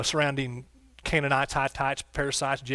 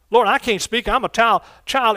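raised, higher voice pleading with God; acted protest; 6 semitones higher, 7 dB louder than usual. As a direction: protest loudly like a reluctant servant. Preacher acts out reluctant prophet's protest.

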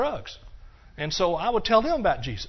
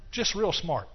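dry sarcastic jab at himself; slower than usual. Real, not acted. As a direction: say it with a wry self-mocking edge. Mocking his own past folly.

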